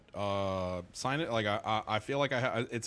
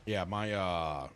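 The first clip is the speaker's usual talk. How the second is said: slow words through a yawn; 4 semitones lower, much slower than usual. Real, not acted. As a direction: yawn mid-sentence. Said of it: "I can't stop yawning".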